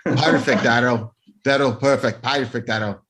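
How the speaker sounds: repeated mock-Scottish "perfect", snapping the R; bad Scottish impression; the speaker's Scottish accent. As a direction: say "Daryl" in a hammed-up Scottish accent. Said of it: "the accent".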